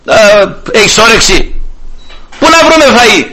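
fed-up brush-off, rising at the end; disappointed indignation. Acted. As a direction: act out an exasperated refusal to a stranger. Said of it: "απογοήτευση και αγανάκτηση μαζί στο όχι αυτό". (με απογοήτευση και αγανάκτηση)

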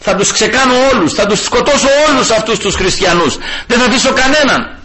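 Saul's threats, pitched high and fervent; a preacher acting a frenzied persecutor; raging Saul. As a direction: voice the mad persecutor vowing to kill them all. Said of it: "Είχε τρελαθεί".

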